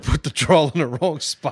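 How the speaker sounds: the line echoed in a light put-on Southern drawl; mock Southern drawl. Shown as a demonstration. Host echoes his cohost in a mock Southern drawl. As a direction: drawl it like a Northerner faking the South. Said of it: "how Northerners fuck up a Southern drawl".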